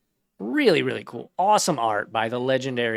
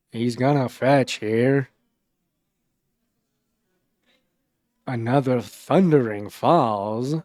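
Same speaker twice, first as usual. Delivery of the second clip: slow, louder vintage radio announcer; old-timey baseball commentator; 5 dB louder, slower than usual. Acted. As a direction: call it like a 1930s ballgame on the radio. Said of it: "like an old-timey baseball commentator".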